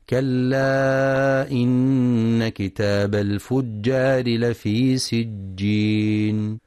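slow, drawn-out melodic Quran recitation; tajweed recitation. Acted. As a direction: chant the verse slowly, stretching the vowels. (تلاوة مجودة بطيئة)

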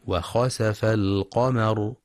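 the sin in وخسف with an open a, khasafa; correct خسف. Shown as a demonstration. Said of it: "والصواب فتح السين".

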